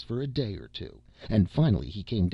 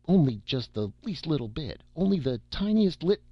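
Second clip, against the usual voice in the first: sheepish minimizing; 8 semitones higher, 5 dB louder than usual. A narrator's reading. Newcomer confessing the comet race, sheepishly squeaking upward. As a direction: pitch climbing high as the excuse shrinks.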